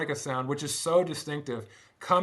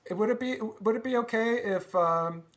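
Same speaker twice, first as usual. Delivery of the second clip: a light hint of a mannerly English gentleman, higher; politely asking, barely voiced accent; 3 semitones higher than usual. Gentleman asks the band to meet a musician, lightly mannerly. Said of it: "I'm not gonna do the accent".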